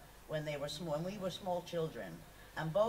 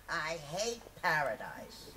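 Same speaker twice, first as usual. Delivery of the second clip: put-on sulky child; slower than usual. Daughter answering father.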